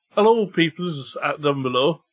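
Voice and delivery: botched Cockney that drifts Cornish; accidental Cornish twang in mock Cockney; Cockney sliding into Cornish. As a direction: try Cockney, let it slip towards Cornish. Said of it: "now I'm going Cornish".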